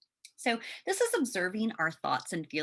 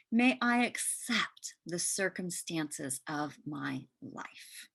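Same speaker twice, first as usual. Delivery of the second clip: calm affirmations. Shown as a demonstration. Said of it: "So here are a few".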